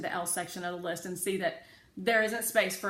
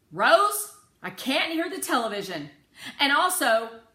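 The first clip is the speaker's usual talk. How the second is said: angry father; 8 semitones higher, 11 dB louder than usual. A narrator's reading. Father losing patience.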